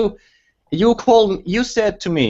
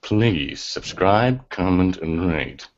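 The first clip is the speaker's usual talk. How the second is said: lightly voiced Brett Keane sign-off; Brett Keane impression; 5 semitones lower than usual. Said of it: "Seawater's doing it".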